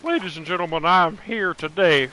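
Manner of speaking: grand campaign speech as Dutch, lightly voiced; Dutch impression. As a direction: Dutch van der Linde giving a stump speech. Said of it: "I'm trying to do a Dutch impression".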